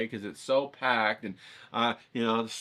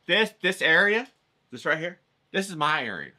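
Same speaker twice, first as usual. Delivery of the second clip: higher, pushy lady claiming her spot; territorial lady; 4 semitones higher, 5 dB louder than usual. Retold or imitated. Lady telling the painter this is her area, pushy and higher. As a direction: stake your claim like a bossy street vendor. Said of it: "And it's this lady, right?".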